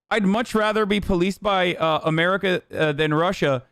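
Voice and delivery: sarcastic parroting of the chat; echoing a viewer's comment to mock it; mocking repeat. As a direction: repeat it back with open scorn. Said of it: "says the Georgian man".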